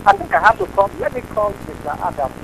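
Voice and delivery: sudden loud burst; loud outburst. Real, not acted. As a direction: raise your voice to end it. Caller threatens to call Adam.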